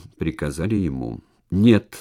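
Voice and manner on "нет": strained shout of refusal; anguished cry. Acted. Drunk recruit refuses, crying out hoarsely. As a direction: cry it out, voice tearing. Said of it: "надрывно выкрикнул Пепе".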